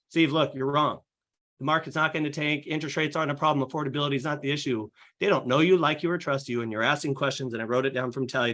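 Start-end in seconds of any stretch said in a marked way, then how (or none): 0.1-4.9 dismissive pushy agent. Retold or imitated. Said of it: "and I go".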